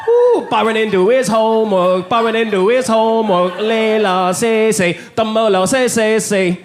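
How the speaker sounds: singsong playground taunt in a put-on Chinese accent; mock Chinese accent. Chinese classmate mocking Byron's homework, mock Chinese accent. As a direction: jeer like a schoolkid in a hammed-up Chinese accent. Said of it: "The white guy doing the Chinese voice".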